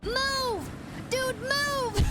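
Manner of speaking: high, loud shout at the screen; loud exasperated yell at stuck trucks; frustrated yell. Real, not acted. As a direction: yell at them to move now. Yelling at game units.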